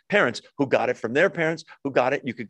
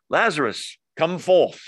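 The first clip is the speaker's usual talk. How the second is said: Jesus calling Lazarus in a put-on British accent; mock British accent; 2 semitones higher, 3 dB louder than usual. Preacher jokingly voicing Jesus calling Lazarus, mock British accent. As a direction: call him out of the tomb, jokingly British. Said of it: "See, hear the British accent there?".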